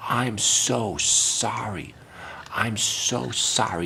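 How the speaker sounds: mock sympathy. Fake apology drawn out.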